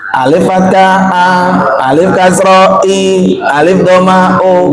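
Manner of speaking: slowed classroom recitation; old spelling recitation. Retold or imitated. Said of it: "Kalau guru ngajarin?".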